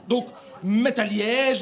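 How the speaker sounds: LIÈGE slowly drawn out; slow, emphatic Liège; local Liège pronunciation. Acted. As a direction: stretch the vowel of Liège, spelling it out by ear. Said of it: "on dit Liège, mais ça se prononce Liège".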